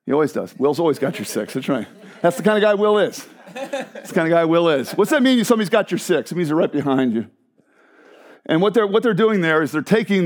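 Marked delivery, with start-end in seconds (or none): 2.2-4.9 said through a laugh; laughing tease. Real, not acted. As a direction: chuckle while teasing a friend. Teasing a congregant, laughing.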